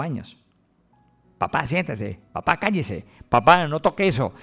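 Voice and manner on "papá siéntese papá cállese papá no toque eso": mimicking a condescending grown child; bossy child voice. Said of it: "creen que ya pueden hablarles como si fueran un niño".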